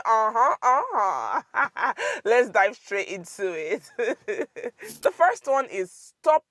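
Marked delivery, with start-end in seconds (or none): 0.0-1.9 playful uh-huh. Shown as a demonstration.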